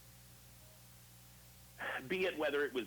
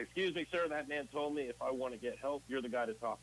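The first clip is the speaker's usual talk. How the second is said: barge in with an eager sir; eager interruption; 3 semitones higher than usual. Retold or imitated. Eager newcomer interrupting an old Texan, pitched up.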